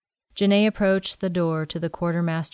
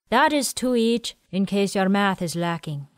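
put-on quirky old man; 3 semitones higher than usual. Willie speaking.

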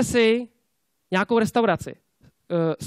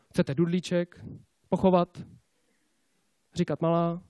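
lower, halting mock sympathy; mock comforting; 3 semitones lower, 4 dB quieter than usual. Boss answering rejected salesmen, mock comforting. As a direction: offer babying comfort in a dry, lowered voice.

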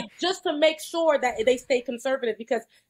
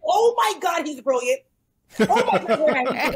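mock adoration; 3 semitones higher, 4 dB louder than usual. Mimicking people who adore the governor, mock gushing. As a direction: imitate a thrilled fan, half laughing. Mimics adoring DeSantis supporters.

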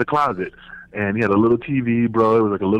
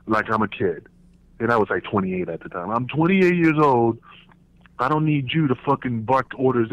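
firm telling-off; 3 semitones higher than usual. Retold or imitated. Telling off Dutch.

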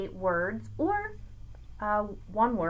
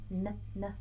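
soft letter sound; 7 dB quieter than usual. Shown as a demonstration. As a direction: say "N, n" softly, letter by letter. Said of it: "we have alliteration".

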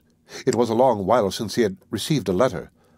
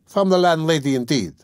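higher, emphatic echo of the question; mild retort; 5 semitones higher than usual. Acted. Servant answering the woken lodger, with a mild retort. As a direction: throw the words back with a falling tune.

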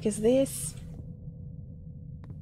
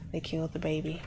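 lower, softer stunned repeat; 4 semitones lower, 5 dB quieter, faster than usual. Real, not acted. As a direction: let it sink in, drop your voice.

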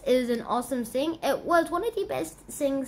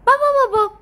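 loud; 10 semitones higher, 10 dB louder, faster than usual. Pretend. Loud nonsense burst.

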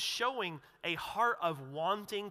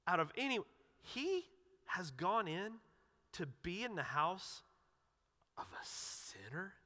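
disgusted disbelief; 4 dB quieter than usual. Retold or imitated. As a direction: let sinner trail off in contempt. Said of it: "It's disgust".

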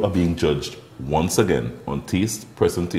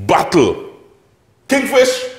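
booming prize announcer; 4 dB louder, slower than usual. Acted. Host announces the battle.

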